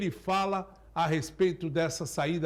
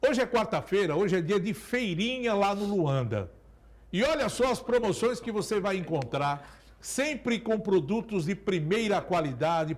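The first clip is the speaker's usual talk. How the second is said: upbeat supermarket ad read; market barker. Acted. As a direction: sell the deals like a market barker. Sponsor ad read mid-show.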